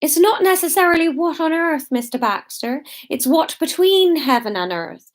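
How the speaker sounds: high, emphatic villager's scolding; indignant lecture. A narrator's reading. Villager correcting Mister Baxter about Jesus, indignant and high. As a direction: build pointedly to the last phrase.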